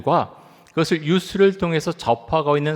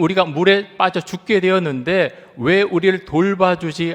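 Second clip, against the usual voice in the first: raised, urgent plea of frightened disciples; higher, louder frightened plea; panicked plea; 6 semitones higher, 3 dB louder than usual. Retold or imitated. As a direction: plead in mild mock panic. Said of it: "그리고 이렇게 말합니다".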